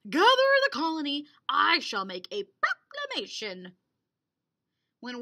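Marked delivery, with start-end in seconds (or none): 0.1-3.8 loud, fast regal command; heroic regal voice. Acted. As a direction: proclaim it like a royal. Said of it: "he said in a heroic, regal voice".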